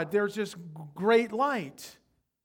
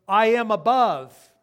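megalomaniac rant; 11 dB louder than usual. Pretend. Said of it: "could be translated".

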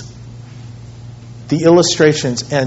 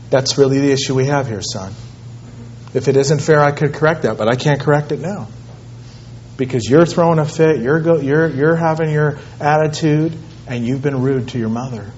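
softer, lower voice of a reasoning dad; calm fatherly correction; 4 semitones lower, 7 dB quieter than usual. Retold or imitated. Father explains to his upset son about obedience, calm and quiet. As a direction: bring it right down and reason firmly with the child.

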